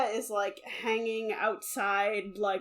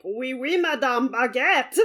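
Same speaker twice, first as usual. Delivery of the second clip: mock French accent; 4 dB louder than usual. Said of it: "Napoleon being like".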